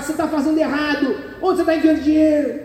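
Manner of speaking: lightly voiced nagging wife poking a finger; fierce bossy wife. Preacher playing the assertive wife scolding her husband, lightly voiced. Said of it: "A onça não, vai lá".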